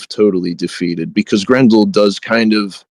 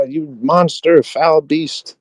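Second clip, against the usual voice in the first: higher, drawn-out mock denunciation; lightly acted indignation, pitched up; retold heroic insult; 6 semitones higher, much slower than usual. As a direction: imitate a young hero hurling insults. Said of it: "Unferth is arguing with him".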